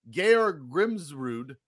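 Georg Grimsrud sounded out very slowly; careful name. Real, not acted. Host carefully saying an unfamiliar name, slow. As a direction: spell out the name syllable by syllable. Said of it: "Pretty sure I got that right".

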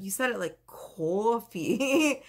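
"coffee" repeated while laughing at her; laughing son's quote. Retold or imitated. Son August teasing her about "coffee", laughing. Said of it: "he's like".

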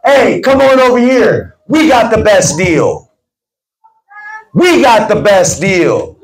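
slow, stretched-out sales call; confident hawker calling customers over; strong, powerful pitch. Shown as a demonstration. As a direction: declare it like the best deal around. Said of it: "declare something in a strong, powerful way".

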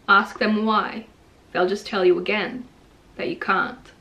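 measured poem reading with pauses between lines; poetry reading. Acted. Author reading a motivational poem to listeners, measured recital. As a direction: read each line deliberately, letting it land. Reads own poem aloud.

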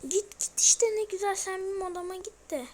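coaxing. Real, not acted. Coaxing the enemy granny.

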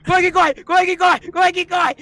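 high, frantic yell to run; terrified gamer yelling run, run; panicked shout. Real, not acted. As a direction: scream at yourself to run, panicking. Panicked player urging himself on.

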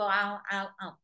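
chewing noises. Retold or imitated. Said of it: "a dog regularly chewing would sit and go".

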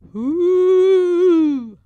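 high, loud startled hoot; frightened cry. A narrator's reading. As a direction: yelp as if the cave just went bump. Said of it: "cried the goblin".

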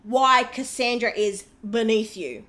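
dry, slow mock praise; sarcastic. Real, not acted. Host sneering at the cast member's insult, slow sarcasm. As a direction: drawl the compliment so it means the opposite. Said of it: "That's sarcasm".

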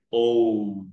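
O held long and even; long O vowel again. Shown as a demonstration. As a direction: repeat the long O clearly.

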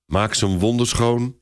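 holding back emotion; with difficulty. Acted. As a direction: voice strained by feeling. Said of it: "zegt hij moeilijk".

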